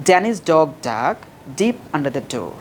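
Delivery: very slow, word by word; slow drill. Shown as a demonstration. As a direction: spell it out slowly like a drill. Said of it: "প্রথমে slowly বলবা". (ধীরে ধীরে অনুশীলন)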